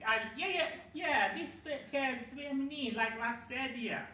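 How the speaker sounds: put-on high-pitched, excitable Italian accent. Comedian playing the Italian disputing the word for chair, high Italian accent. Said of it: "And the Italian goes".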